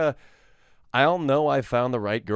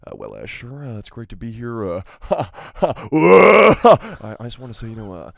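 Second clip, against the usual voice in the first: Timothée Chalamet; 2 semitones lower than usual. Retold or imitated. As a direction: stammer humbly as a shy young actor. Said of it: "then I go into Timothée Chalamet".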